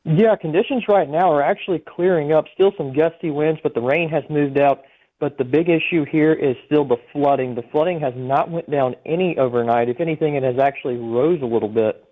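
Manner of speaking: over a phone line; speaking down a phone line. Real, not acted. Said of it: "we have you on the phone".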